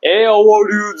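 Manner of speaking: mock upbeat greeting; cheery greeting. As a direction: greet like a confident stranger. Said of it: "if the other guy comes up to".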